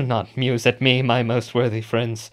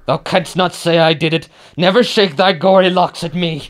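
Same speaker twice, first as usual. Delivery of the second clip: 1 horrified accusation; 4 semitones higher, 5 dB louder than usual. Acted. Macbeth confronts the ghost at banquet.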